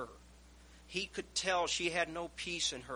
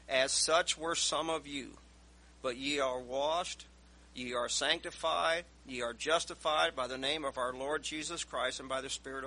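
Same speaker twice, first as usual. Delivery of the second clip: preaching scripture; 4 dB louder than usual. Acted. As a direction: lay each phrase down with weight. Slow emphatic scripture reading.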